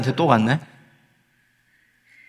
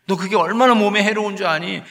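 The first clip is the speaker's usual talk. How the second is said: parent's mild scolding; 4 semitones higher than usual. Retold or imitated. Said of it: "이런 말을 하잖아요".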